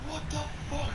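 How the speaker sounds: very high outraged shriek; screaming. Retold or imitated. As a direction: shriek it in disbelief. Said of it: "I started screaming".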